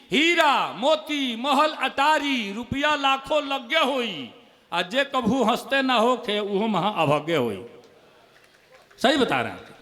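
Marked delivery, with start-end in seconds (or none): 0.1-7.6 drawn-out stage poetry delivery; reciting a Bhojpuri muktak slowly on stage; slow poem recital. Acted. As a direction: recite each line slowly. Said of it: "एक मुक्तक बहुत पहले पढ़ता था".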